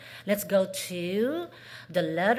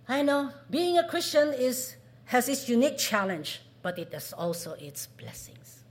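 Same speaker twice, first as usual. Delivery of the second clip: positive; 4 semitones higher, 5 dB louder than usual. Shown as a demonstration. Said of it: "Very positive".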